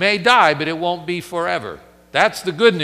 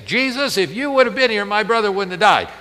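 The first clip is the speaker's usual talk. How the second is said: Martha accusing; 6 semitones higher, 5 dB louder than usual. Acted. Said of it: "That's Martha".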